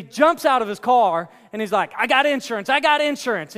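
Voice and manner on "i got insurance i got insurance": a mildly panicked man pleading, pitch up; panicked driver. Retold or imitated. Imitating the rattled driver who hit his van, pleading. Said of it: "And he's, like, freaking out".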